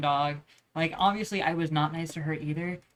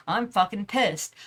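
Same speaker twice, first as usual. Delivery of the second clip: slow, louder mock-exasperation; retold anger; 3 semitones higher, 5 dB louder, slower than usual. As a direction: stress each word, a touch of anger. Retelling his anger at his brother.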